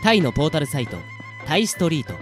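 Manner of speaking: measured announcer delivery; sponsor read. Shown as a demonstration. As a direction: read out sponsors in neat, separate phrases. Reads sponsor credits. (提供読みのアナウンス口調)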